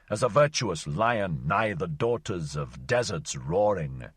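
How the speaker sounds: a wanderer's mock-solemn song to desert maidens, recited with relish; declaimed poem. Wanderer serenading desert daughters, mock-solemn poem. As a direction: lay it on like a half-mocking love poem.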